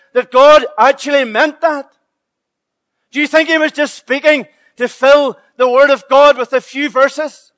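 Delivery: fiery pulpit questioning; forceful preaching. Acted. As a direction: hammer the questions at the congregation. Preacher challenging congregation, rising force.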